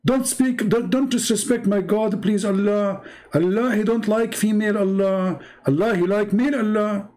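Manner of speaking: high, pleading mock believer voice; mock offended believer. Streamer parodying a believer begging him not to disrespect God, high mock plea. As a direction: whine it like a believer defending his God.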